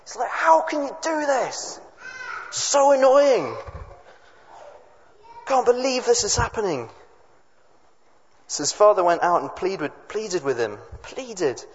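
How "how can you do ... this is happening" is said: acted outraged protest, high and drawn out; high-pitched, slow indignant complaint; furious. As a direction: play a fed-up son wailing in outrage. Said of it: "he's furious".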